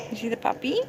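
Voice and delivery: hushed aside to the little listener; soft whisper. Real, not acted. Parent whispering to child over the storybook, hushed. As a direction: breathe it softly, pointing at the picture.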